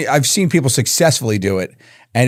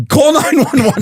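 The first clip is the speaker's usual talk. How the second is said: mildly raised mock yell into a phone; retold yell; 10 semitones higher, 3 dB louder, slower than usual. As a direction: imitate a panicked caller, only half yelling. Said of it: "He yelled into the phone".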